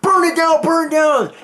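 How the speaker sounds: high, loud yell to burn it; shouting order. Retold or imitated. Marines yelling to burn the creature, high shout. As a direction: urge them on with a shout. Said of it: "these guys are like".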